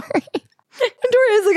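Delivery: ordinary talk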